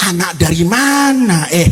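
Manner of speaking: low, menacing petty official; threatening official. Acted. Village head threatens Pharaoh with a transfer, in a low menacing voice. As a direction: lean on him like a bully boss. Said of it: "Kata kepala desa".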